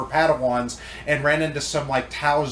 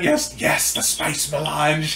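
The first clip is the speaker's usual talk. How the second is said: mock Dune; slower than usual. Quoting Dune parody.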